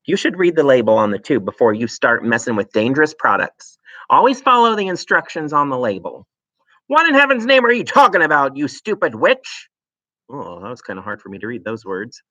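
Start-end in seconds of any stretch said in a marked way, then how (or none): 0.1-6.3 nagging wife. Acted. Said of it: "Missus Wormwood said to him". 6.9-9.7 high, loud angry outburst; a furious father shouting at his wife; shouted. Acted. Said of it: "Mister Wormwood shouted".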